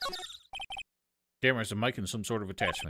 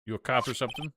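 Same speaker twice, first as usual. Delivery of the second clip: put-on Southern accent; 3 semitones higher than usual. Voices Lotta.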